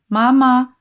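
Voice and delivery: put-on high-pitched baby babble; babbling toddler. A narrator's reading. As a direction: chirp it out like a two-year-old. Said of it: "gazouilla Nymphadora en tendant les bras".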